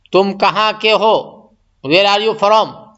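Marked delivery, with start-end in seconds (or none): 1.9-2.9 very slow, spelled-out English question; slow English phrase. Shown as a demonstration. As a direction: stretch each word out for the learners. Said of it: "English میں بول سکتے".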